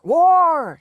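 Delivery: put-on a wild drunken yell; shouted. A narrator's reading. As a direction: bellow the word at the top of his lungs. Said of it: "he shouted".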